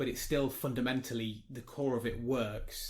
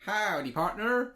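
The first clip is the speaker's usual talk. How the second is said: cowboy greeting; 7 semitones higher, slower than usual. Pretend. Cowboy greeting for each follower.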